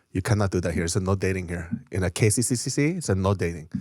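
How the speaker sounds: low-pitched mock Korean accent; imitated Korean accent. Storyteller imitates a Korean guy forbidding dating, Korean accent. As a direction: voice a Korean rule-enforcer in accented English.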